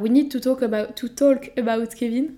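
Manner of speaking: titre en anglais, the English film title said with a light English accent; accent anglais léger. Shown as a demonstration. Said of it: "avec mon bel accent anglais".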